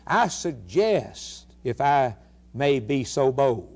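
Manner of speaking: slow, overly courteous mock request from God; mock a timid God who only invites; mock polite suggestion. Preacher mocks a God who only invites, very slow and overly polite. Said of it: "God says".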